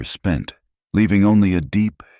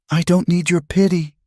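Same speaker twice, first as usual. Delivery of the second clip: very high, desperate refusal; anguished cry; 14 semitones higher than usual. A narrator's reading. Woman shutting out the man's pity, crying out. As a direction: cry out, voice near cracking. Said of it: "her voice cracking".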